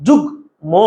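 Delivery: "যুগ্ম" split as jug, then mo; no vowel after g. Shown as a demonstration. Teacher showing students the silent vowel, g closed off. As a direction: stop on the g in "যুগ্ম" before mo. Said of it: "গয়ের ভিতরে আর কোনো স্বরবর্ণ নেই".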